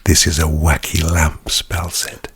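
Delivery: low, hushed product pitch; ASMR voice. Pretend. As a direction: play up the hushed reverence. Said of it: "this is like A S M R".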